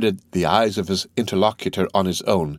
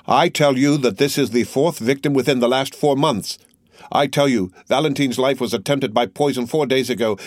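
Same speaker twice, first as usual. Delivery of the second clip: raised, relentless accusing voice; Morel's grim accusation; 4 semitones higher than usual. Acted. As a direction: hammer each charge home.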